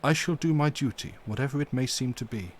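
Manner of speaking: mildly stern, firm and deliberate; a touch of stern gravity in the old professor; grave and stern. Acted. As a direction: hold your ground with dignity. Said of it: "said gravely and sternly".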